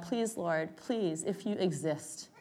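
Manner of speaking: slow, soft pleading to God; whisper-begging the Lord for help; quiet, drawn-out plea while collapsing on the course; desperate prayer. Retold or imitated. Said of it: "crying out to God".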